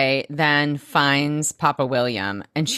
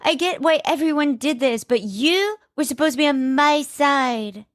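imitating Ness, pitched much higher and near tears; a hammed-up wounded plea, voice cracking at the end; lightly acted teary girlfriend voice; mock hurt Ness; 11 semitones higher than usual. Quoting Ness's tearful confrontation.

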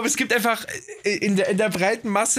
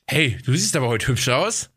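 cheeky, lilting little compliment; lightly roguish flirt; mischievous compliment; 3 semitones lower than usual. Shown as a demonstration. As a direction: say it with a sly twinkle. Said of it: "mit so einem Verschmitz".

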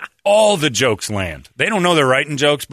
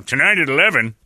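news promo voice; 3 semitones higher, 4 dB louder than usual. Retold or imitated. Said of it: "Steve Irvin comes on".

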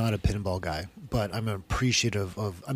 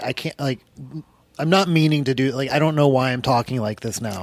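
hint of a put-on Irish brogue; 3 dB louder than usual. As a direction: slip into an Irish accent, imitating yourself. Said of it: "I just put on an Irish brogue".

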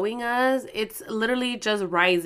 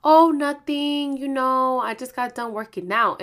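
feigned nonchalance; 3 semitones higher, 4 dB louder than usual. Retold or imitated. Boyfriend hiding his mood from his girlfriend, feigned nonchalance. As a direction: imitate someone brushing off a question with a lie. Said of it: "I know he's lying".

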